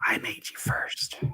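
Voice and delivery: gravelly whispered Batman growl. Acted. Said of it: "So that's my Batman one".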